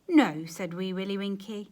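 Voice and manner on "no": sharp loud no; slam-the-door no; loud refusal. Acted. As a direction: bark it at the door. Neighbour refusing curtly.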